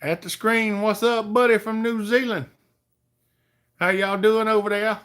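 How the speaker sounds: bright stream shout-out; cheery greeting. Real, not acted. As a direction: call out a big friendly welcome. Greeting viewer from New Zealand.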